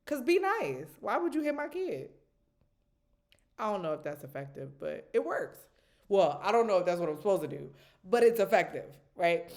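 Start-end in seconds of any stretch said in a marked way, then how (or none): 0.0-2.1 mock scolding, high and loud; scolding the dresser. Mom scolding the dresser that hurt her kid. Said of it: "telling it". 6.1-9.5 louder and faster, self-defending; loud defensive aside. Real, not acted. Mom defending her odd method to viewers, loud and quick.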